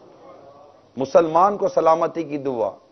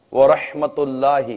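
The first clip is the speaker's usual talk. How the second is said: ورحمت اللہ drawn out slowly; slow careful greeting; 3 semitones lower, much slower than usual. Shown as a demonstration. Preacher teaching the full salaam, slowly. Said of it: "سلام کرنا صحیح ہے".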